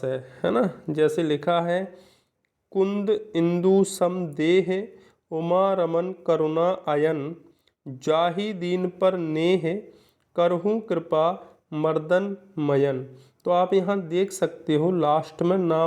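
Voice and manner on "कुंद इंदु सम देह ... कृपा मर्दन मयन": slow, measured verse reading; slow classroom recital of a poem; poem recitation. Shown as a demonstration. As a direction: recite the couplet line by line. Reads a poem example slowly.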